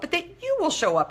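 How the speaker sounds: "you" lifted high and leaned on; stress on you. Shown as a demonstration. Coach correcting the affirmation, stressing "you". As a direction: point the word "you" up. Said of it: "say this out loud to you".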